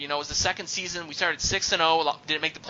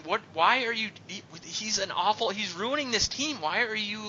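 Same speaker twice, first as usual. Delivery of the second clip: mock yell; 6 semitones higher than usual. Fan heckling the team owner from the stands, mock yell. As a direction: imitate yelling in protest without really shouting. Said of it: "I just started yelling".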